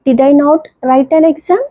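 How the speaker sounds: very slow, word-by-word example read; slow classroom reading of an English example; slow dictation. Shown as a demonstration. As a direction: spell the sentence out slowly for students. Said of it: "teacher dictating example sentence".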